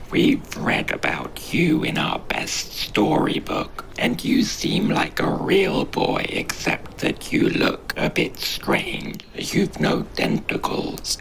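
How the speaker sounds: high, whispery little creature in awe; a tiny creature breathless with excitement; starstruck creature voice. Acted. Starstruck creature addresses boy.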